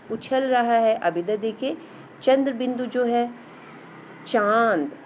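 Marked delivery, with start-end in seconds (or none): 4.3-4.9 चांद with a long vowel through nose and throat; nasal vowel. Shown as a demonstration. Teacher demonstrates chandrabindu to children, nasal vowel from nose and throat. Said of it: "इसमें नाक और गले दोनों से आवाज़ निकल रही".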